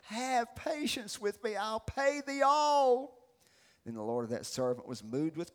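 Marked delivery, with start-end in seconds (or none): 0.0-3.2 slow, drawn-out plea; pleading. Acted. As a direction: stretch the words out, begging for time. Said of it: "the servant fell down and worshiped".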